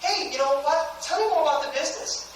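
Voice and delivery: high-pitched, eager mock customer; keen caller. Customer calling to ask about the business, eager. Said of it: "call people and go".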